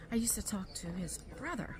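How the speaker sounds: hushed aside in a store aisle; whispering. Real, not acted. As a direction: whisper it to the camera. Private remark in a store.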